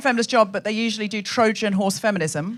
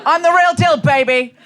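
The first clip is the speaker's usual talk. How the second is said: mock Darren swagger; 4 semitones higher, 4 dB louder than usual. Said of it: "bottle Darren and wear him like a cologne".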